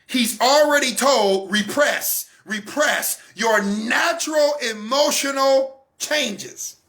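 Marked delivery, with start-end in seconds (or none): 1.5-6.8 commanding shout. Retold or imitated. Society ordering the boy, slow shouted command. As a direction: hammer the command out slowly.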